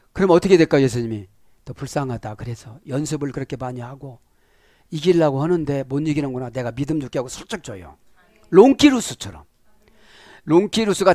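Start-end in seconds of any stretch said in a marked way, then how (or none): 1.6-7.2 gentle pitying Jesus. Acted.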